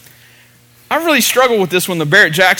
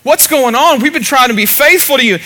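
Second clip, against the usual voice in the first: higher-pitched, mildly acted plea; Joshua crying out; 5 semitones higher than usual. Preacher voicing Joshua face down before God, mild crying out. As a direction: imitate a frustrated cry to heaven. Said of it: "he's just crying out".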